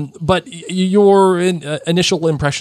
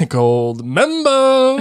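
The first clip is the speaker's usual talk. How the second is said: laughing; 11 semitones higher, much slower than usual. Real, not acted. Laughing repeat of gold member.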